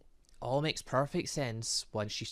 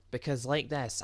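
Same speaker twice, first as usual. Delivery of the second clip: ordinary talk, nothing marked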